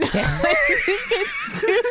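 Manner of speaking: words broken by laughter; laughing. Real, not acted. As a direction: laugh through the line. Laughing while speaking.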